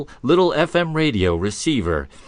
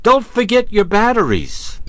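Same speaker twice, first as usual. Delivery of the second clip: punchline delivery; 8 semitones higher, 5 dB louder than usual. Retold or imitated.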